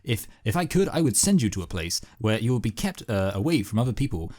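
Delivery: judge from cartoon. Co-host quotes the judge rebuking Peter, indignant put-on voice. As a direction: deliver a scolding ruling as a cartoon judge. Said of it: "and the judge is like".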